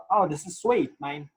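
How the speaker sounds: bad Australian accent attempt. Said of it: "one of the worst Australian accents".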